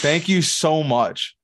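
milk the undeserved praise; mock gracious thanks. Thanking the clerk for praise he doesn't deserve, slow and mock gracious. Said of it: "I said".

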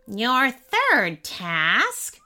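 very slow and smug; gloating imp setting an impossible task. Acted. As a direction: draw it out, pleased with yourself. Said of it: "said the imp smugly".

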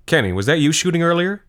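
high, loud call across the kitchen. Acted. Aunt Danielle calling across the kitchen to Kenny, high and loud.

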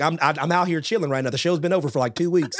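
lightly put-on Southern accent; a touch of Southern in the voice. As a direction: imitate an unbothered Southerner. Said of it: "I don't know why he has the Southern accent".

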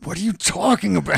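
high-pitched imitation of exasperation. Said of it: "Your voice raised like".

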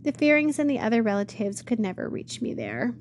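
long for the mountains with all her heart; cried out. Acted. Much Afraid gazes at the mountain, yearning cry. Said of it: "She cried out with all her heart".

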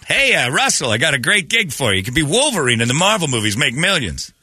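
high, eager agent voice; pushy agent. Retold or imitated. Voicing the agent on call.

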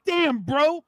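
high, hyped bro voice; Boston bro. Retold or imitated. Retelling his couch reaction in a high hyped bro voice. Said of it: "And I was like".

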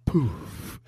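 slow breathy whisper. Pretend. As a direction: whisper it slowly like a secret. Whispered bit as vibrator.

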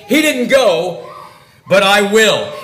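slow, loud contrast of "He" and "I"; weight on "I" in "but I will"; deliberate, superior-sounding comparison; self-elevating. Acted. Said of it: "is elevating himself in word alone".

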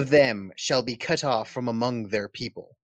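mock-solemn Southern preacher reading scripture. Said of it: "let me get my Southern preacher voice on".

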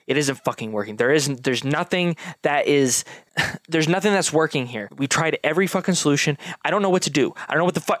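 mock raging, pitch climbing; Hope losing it, rising frustrated rant; fit of rage. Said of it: "in, like, a fit of rage go".

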